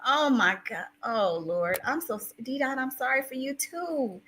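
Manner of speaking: soft, pained condolence; tearful sympathy. Real, not acted. Streamer sorry for bereaved viewer, tearful sympathy. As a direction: console gently while close to tears.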